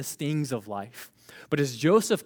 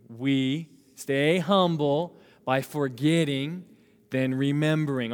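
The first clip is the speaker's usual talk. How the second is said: slow group recitation; slower than usual. Shown as a demonstration. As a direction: stretch "We stay humble by forgetting" very slowly. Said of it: "say it with me".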